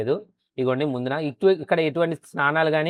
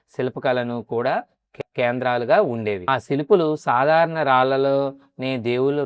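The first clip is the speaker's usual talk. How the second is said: measured storytelling voice-over with deliberate pauses; documentary narration. A narrator's reading. Telling viewers the Bikkavolu Vinayaka temple's legend, measured documentary narration. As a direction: narrate it like a scripted temple history.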